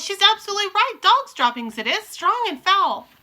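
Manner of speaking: loud agreeing cry; cried. Acted. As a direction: call out agreement. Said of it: "cried another voice".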